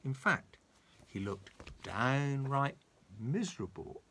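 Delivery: put-on lively storybook reading for a child; reading to children. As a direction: read it like a bedtime story for a grandson. Grandpa reads a story aloud.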